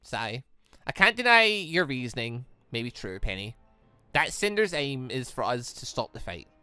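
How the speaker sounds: usual speaking voice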